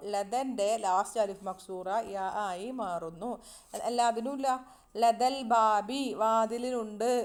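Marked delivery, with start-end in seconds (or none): 5.0-6.0 slow Arabic example. Shown as a demonstration. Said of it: "കണ്ടോ".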